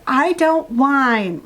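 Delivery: whiny protest. Acted.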